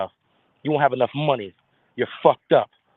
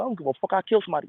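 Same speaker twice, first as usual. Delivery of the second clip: mock hard boast; tough-guy boasting; 6 semitones higher, faster than usual. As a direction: brag like a street tough. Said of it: "you be like".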